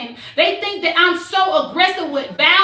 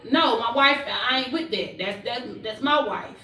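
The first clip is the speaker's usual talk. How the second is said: low protective husband; 6 semitones lower, 7 dB quieter than usual. Retold or imitated. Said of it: "I want him to be like".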